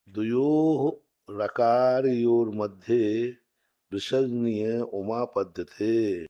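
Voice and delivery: measured, drawn-out recital; slow sutra recitation. Shown as a demonstration. Teacher reading the next rule slowly.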